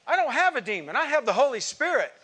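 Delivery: loud retold rebuke of a demon-casting lieutenant; commanding shout. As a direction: order him out at full volume. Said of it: "I said".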